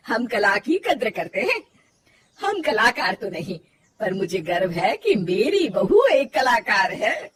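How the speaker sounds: proud words with light laughter; laughing. Acted. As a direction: chuckle with pride at the daughter-in-law. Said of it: "तीनों हंस पड़ते।".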